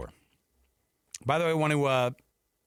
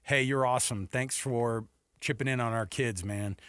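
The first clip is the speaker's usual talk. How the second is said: grateful thanks; 3 semitones lower than usual. Retold or imitated. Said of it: "somebody who deserves that extra".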